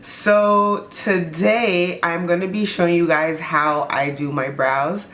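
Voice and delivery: talking with a numb mouth after a filling; words slurred by a numb mouth. Real, not acted. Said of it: "I'm talking weird".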